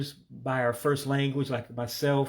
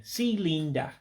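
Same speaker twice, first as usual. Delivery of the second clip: Igbo accent; 4 semitones higher than usual. Shown as a demonstration. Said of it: "say it with sort of an accent".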